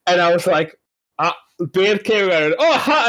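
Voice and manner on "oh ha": laughing greeting. Retold or imitated.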